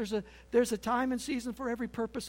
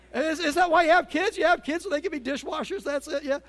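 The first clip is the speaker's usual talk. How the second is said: loud joking; 6 semitones higher, 10 dB louder than usual. Real, not acted. Preacher jokes loudly to congregation.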